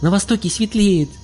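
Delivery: high excited shout. A narrator's reading. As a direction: call it out joyfully. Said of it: "закричал Олег".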